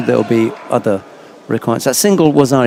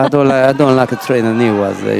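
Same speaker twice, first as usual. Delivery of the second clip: put-on Italian accent. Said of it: "a nice Italian accent there".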